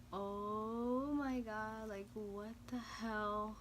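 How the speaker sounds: very slow, drawn-out despair; retold dismay. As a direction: stretch it out in helpless disbelief. Stranded, retold despairing reaction.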